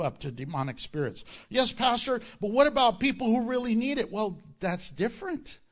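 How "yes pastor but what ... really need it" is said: mock objector. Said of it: "mock objection from listener".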